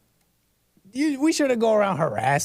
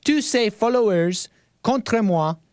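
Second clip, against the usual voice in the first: higher, slow French-accented reading; 4 semitones higher, slower than usual. Shown as a demonstration. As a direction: say it slowly with a put-on French accent. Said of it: "like, a French accent because I'm reading French".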